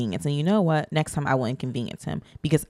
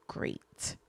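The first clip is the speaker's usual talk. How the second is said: whispered; 16 dB quieter than usual. Real, not acted. Whispered aside in airport story.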